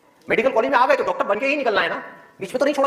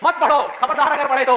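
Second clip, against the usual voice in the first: lightly acted stern warning, higher pitched; stern forbidding; 3 semitones higher than usual. Parents and the world forbidding a student to study, mildly stern. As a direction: forbid it like a scolding elder, lightly. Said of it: "पूरी दुनिया आकर के आपको कहे".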